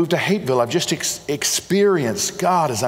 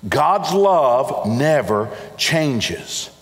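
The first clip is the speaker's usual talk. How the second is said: every word of "God's love never changes" drawn out slowly; slow, deliberate; much slower than usual. Shown as a demonstration. Preacher slowly repeating his key line to the congregation. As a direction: lay each word down slowly so it sinks in. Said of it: "I have to hang on to that".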